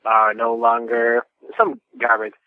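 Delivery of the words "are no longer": trailer voice. Retold or imitated. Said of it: "something like".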